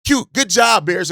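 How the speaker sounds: put-on high, loud, patronizing "good job" as if to a child; mock the rivals patting the Bears on the head; condescending mock praise. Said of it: "everybody's like".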